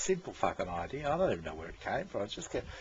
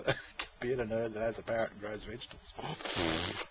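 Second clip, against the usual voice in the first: laughing it out. Real, not acted. Laughing at own description.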